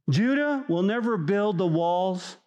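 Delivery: high, nagging whine to the leader; whiny complainer. Retold or imitated. Complaining people nagging Judah, high and whiny. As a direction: pester Judah with a gripe.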